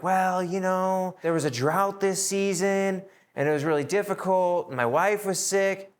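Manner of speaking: mock worshipper dodging the priest with excuses; whiny excuses.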